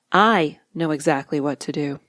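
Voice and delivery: I pushed up and stressed. Shown as a demonstration. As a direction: lean on the word I. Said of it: "putting emphasis on the appropriate word".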